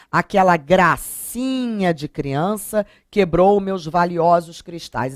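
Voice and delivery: a slow, mildly mocking read; lightly sarcastic, praising what you resent; irônico. Shown as a demonstration. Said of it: "estou sendo irônica". (tom levemente irônico e lento)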